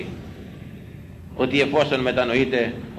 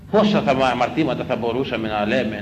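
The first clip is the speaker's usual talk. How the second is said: ordinary delivery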